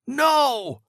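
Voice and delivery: high, loud anguished cry; desperate scream. Acted. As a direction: scream after the dead line. Father as the line goes dead.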